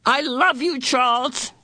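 high tearful cry. A narrator's reading. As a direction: cry it out through sobs. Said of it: "she cried again".

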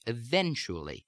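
standard American "eventually", stress only on the second syllable, falling end; standard American accent. Shown as a demonstration. Accent coach demonstrating standard American speech, "eventually" in American accent. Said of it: "in standard American speech".

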